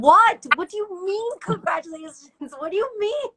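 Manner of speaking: high, stunned outburst; retold disbelief. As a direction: burst out loud, then keep questioning way up high. Acts out stunned reaction to news.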